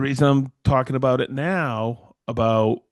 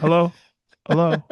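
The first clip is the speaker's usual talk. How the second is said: incredulous; 6 semitones higher, 5 dB louder than usual. Real, not acted. Mocks the unrealistic one-week estimate.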